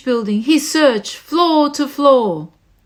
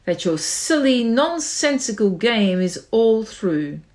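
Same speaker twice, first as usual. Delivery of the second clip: snapped; 3 semitones lower than usual. Acted. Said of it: "snapped the big kangaroo".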